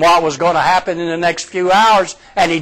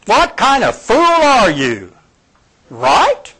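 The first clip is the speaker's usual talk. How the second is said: higher, incredulous jab; mock scolding; 8 semitones higher, slower than usual. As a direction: tease him like a fool. Preacher mocks Roger's doubt.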